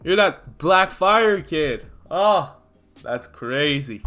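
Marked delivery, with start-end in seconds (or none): 0.0-2.5 louder, higher gloating recognition; a hint of a sneering villain. Villain gloating at Izuku, lightly voiced.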